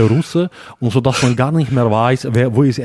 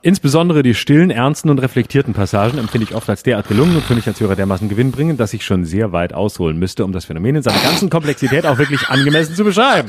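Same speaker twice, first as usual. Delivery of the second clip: reading a fan message. Acted. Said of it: "lass mich mal lesen".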